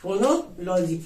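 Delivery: फोनोलॉजी drawn out slowly with a fall; slow answer. Shown as a demonstration. Teacher answering own question, slow and clear. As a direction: stretch the word फोनोलॉजी. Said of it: "sound का अध्ययन क्या कहलाता है".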